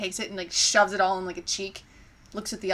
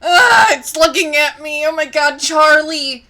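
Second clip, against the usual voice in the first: high, loud frightened cry; panicked chipmunk; 6 semitones higher, 11 dB louder than usual. Acted. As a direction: shriek in critter panic.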